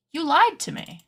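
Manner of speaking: dramatic pretend outrage; mock betrayal. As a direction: accuse them with hammed-up hurt. Mock accusing her sewing patterns.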